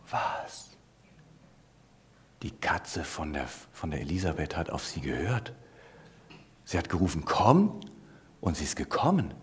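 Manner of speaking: soft, hushed astonished whisper. A narrator's reading. Chinese women whispering amazed about the cat, hushed. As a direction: whisper it to your neighbour in disbelief. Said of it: "angefangen zu tuscheln".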